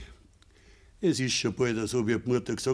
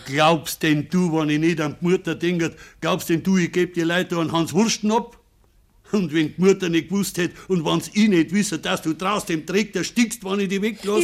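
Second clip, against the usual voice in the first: rising, louder reproach to his son; heated scolding; 5 semitones higher, 4 dB louder than usual. Acted. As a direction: build the anger as you go.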